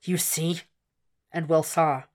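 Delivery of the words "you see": soft, hushed and much quieter; a near-whisper over the dying man. A narrator's reading. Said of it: "he had whispered".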